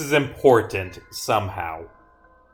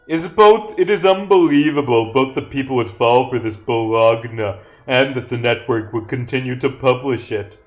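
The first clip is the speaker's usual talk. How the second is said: emphatic read-out; 5 dB louder than usual. Acted. Re-reads script line emphatically.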